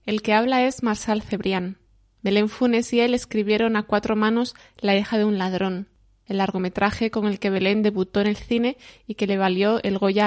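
measured documentary voice-over read; scripted podcast narration. Acted. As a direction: present it like a radio feature. Presenter reads scripted narration.

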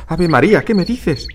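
a woman hit by terrible news; shocked. Acted. The Obi reacting to the father's death, high and shocked.

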